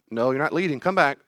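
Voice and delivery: put-on stubborn kid pulling back; child refusing to follow; protesting child.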